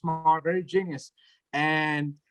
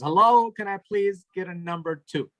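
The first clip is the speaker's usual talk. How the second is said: slightly raised voice, stressed hello; louder repeated order. Retold or imitated. Mother re-orders at silent drive-thru, a bit louder. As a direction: call out the order to get attention. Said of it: "she says it again louder".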